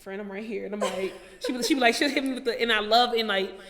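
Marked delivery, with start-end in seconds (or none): 0.0-0.7 gentle friend. Retold or imitated. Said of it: "And she's like".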